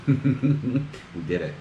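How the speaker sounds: slow, breathy laugh then words; emotional laugh. Real, not acted. Emotional at arrival.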